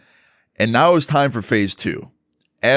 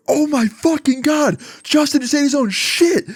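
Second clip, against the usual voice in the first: very high, hammed-up shocked cry; feigned horror. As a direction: announce it high and aghast to the room. Teller feigns shock to class.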